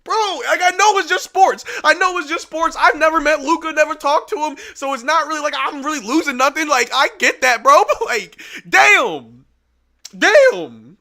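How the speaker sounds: crying, trying to talk himself down; tearful. Real, not acted. Streamer apologizing to viewers while still crying, tearful. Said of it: "this is my biggest crash out".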